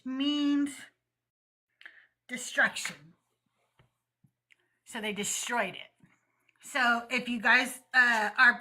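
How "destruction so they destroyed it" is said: hushed, ominous whisper; dramatic whisper. Pretend. Streamer's hushed aside on a destroyed town, whispered. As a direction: whisper it like a dark secret.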